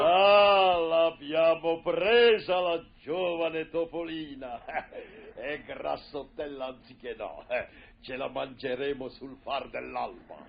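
gloating pirate captain; villain pirate laughing. Acted. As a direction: savour the captive, laughing. Corsaro cattivo che ride.

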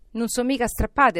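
mildly agitated joy; exclaiming. A narrator's reading. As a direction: exclaim it with excited relief. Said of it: "esclamò Scrooge".

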